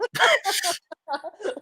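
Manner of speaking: sudden high-pitched laugh; high burst of laughter. Real, not acted. Joke about Emoji Movie.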